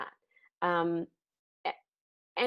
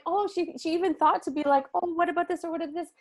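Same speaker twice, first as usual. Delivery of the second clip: high, fast gushing quote, much higher; excited gushing; 10 semitones higher than usual. Retold or imitated. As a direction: gush it out high and quick, amazed. Gushing retold inner quote.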